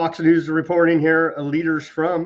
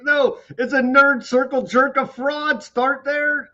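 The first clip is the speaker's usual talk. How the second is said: incredulous mockery; 12 semitones higher, 3 dB louder than usual. Real, not acted. Mocking fraud, excited.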